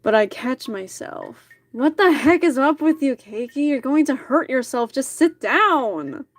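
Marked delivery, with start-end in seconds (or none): 1.7-6.2 mildly raised, exasperated urgent order; understated urgent shout. Acted. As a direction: scold with urgency, slowing on the final command. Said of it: "He shouts at me urgently".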